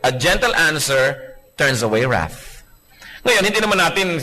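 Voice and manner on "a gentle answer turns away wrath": gentle scripture quote. Shown as a demonstration. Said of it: "Sabi sa Bible".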